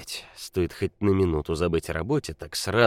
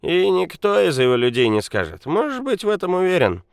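put-on loud angry drunk; 6 semitones higher, 7 dB louder than usual. A narrator's reading. Drunk Nikola rages.

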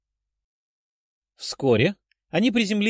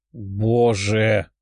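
lower, ashamed cry into the hands; mortified exclamation; 5 semitones lower than usual. A narrator's reading. Dasha hides her face from friends, mortified. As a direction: groan it out, burning with shame. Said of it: "закрыв лицо ладонями, воскликнула Даша, сгорая от стыда".

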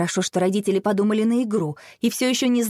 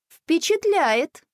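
slow, much higher admiring drawl; impressed; 9 semitones higher, much slower than usual. A narrator's reading. Sister praising the twins, slow impressed tone. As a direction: savour the word, impressed. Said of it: "оценила Василиса".

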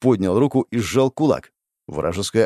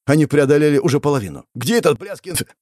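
hysterical; 4 semitones higher, faster than usual. Acted. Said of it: "Истерику прервал грохот".

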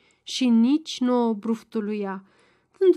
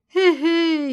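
gloating chuckle; 6 semitones higher, 5 dB louder than usual. A narrator's reading. Baciu gloats.

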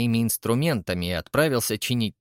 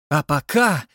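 louder, rousing cry; energetic shout; 4 semitones higher, 5 dB louder than usual. Acted. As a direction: fling out your arms and call it. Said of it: "закричал он энергично". (энергичный выкрик)

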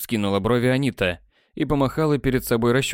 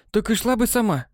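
contemptuous; 11 semitones higher than usual. A narrator's reading. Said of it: "презрительно бросила та".

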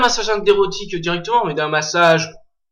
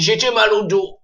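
put-on old man voice; 4 semitones higher, 3 dB louder, slower than usual. Shown as a demonstration. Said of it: "il faut que tu fasses une voix de vieux".

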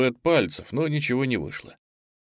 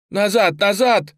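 high, loud and slow desperate yell; shouting; 11 semitones higher, 7 dB louder, slower than usual. Acted. Boy to the others while pulling, high desperate yell. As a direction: drag each word out in a frantic scream. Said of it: "кричал Лёня".

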